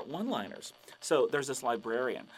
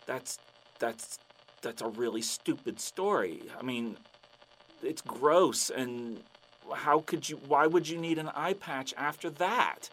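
deflate after a stupid story; disgusted letdown; slower than usual. Acted. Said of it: "the guy's like".

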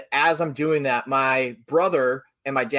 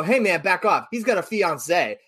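mildly sassy warning, pitched up; kinda sassy; 4 semitones higher than usual. Retold or imitated. Telling a man to back off an engaged friend, lightly sassy. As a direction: retell it with a touch of sass, drawing out the end. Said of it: "I said it kinda, like, sassy".

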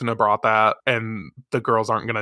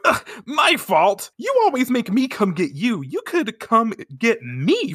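whiny Artemis; 9 semitones higher than usual. Retold or imitated. Artemis complaining to Luna, higher whiny tone. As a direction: whine like a put-upon cat.

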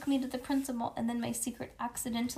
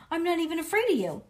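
put-on defiant child; 9 semitones higher, 7 dB louder, faster than usual. A narrator's reading. Junie's defiant line.

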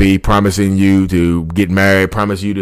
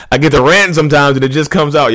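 laughing at himself; 5 semitones higher than usual. Real, not acted. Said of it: "You hear my voice change".

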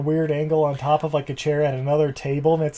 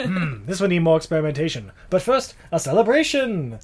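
giddy celebration; 4 semitones higher, 3 dB louder than usual. Retold or imitated. Doctor declares celebration.

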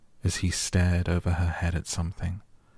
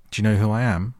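loud, higher-pitched imperious question; haughty demand; 4 semitones higher, 6 dB louder, much faster than usual. A narrator's reading. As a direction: demand it like a young Rajah, ringing out. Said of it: "demanded the Rajah".

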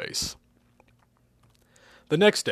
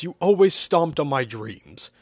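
slow, aggrieved and higher; sighing reproach, pitched up; sighed complaint; 4 semitones higher, 4 dB louder, slower than usual. Acted. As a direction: drag it out as a wounded complaint. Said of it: "Hugh sighed".

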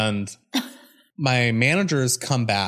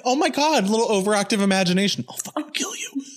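much higher, sugary, dropping to a hushed threat; sweet mocking voice; 10 semitones higher than usual. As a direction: play sweet and menacing at once. Mock sweet then threat.

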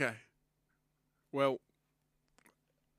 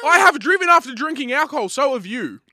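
loud defiant confession; 11 semitones higher, 14 dB louder than usual. Real, not acted. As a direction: blurt it out loud and high. Defiant confession under pressure.

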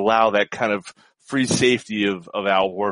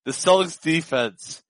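trying not to laugh; 5 semitones higher, slower than usual. Real, not acted. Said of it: "I gotta stop looking at the screen".

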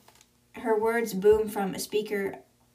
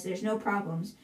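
panting from running; out of breath; 3 dB quieter than usual. Acted. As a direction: gasp the words out breathless. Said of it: "out of breath from running".

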